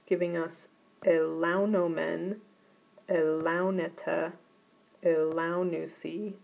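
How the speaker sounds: elaunomen said e-LAU-no-men, the accent on the third to last syllable; careful teacher model stressing LAU in elaunomen. Shown as a demonstration. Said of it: "they go on the third to last syllable".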